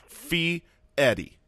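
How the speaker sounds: Fie-eddie drawn out slowly, r as d; Fie-eddie pronunciation. Shown as a demonstration. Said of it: "It's like Fie-eddie".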